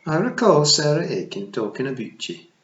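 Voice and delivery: high, loud tiny pixie matriarch; a tiny Scots fairy queen, pitched high; Kelda voice. Acted. Kelda remembers Tiffany.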